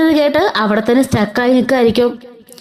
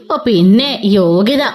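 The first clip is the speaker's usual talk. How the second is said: sneering scoff; 4 semitones lower, slower than usual. Retold or imitated. Mother-in-law sneers at Revathi.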